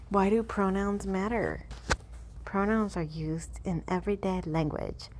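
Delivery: attempted Canadian accent. Reading a government pronoun fact sheet to viewers in an attempted Canadian accent. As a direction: read it out in a badly faked Canadian accent. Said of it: "can't really do a Canadian accent".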